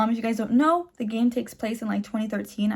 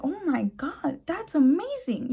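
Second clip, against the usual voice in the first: amazed; 5 semitones higher, slower than usual. Retold or imitated. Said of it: "I was like".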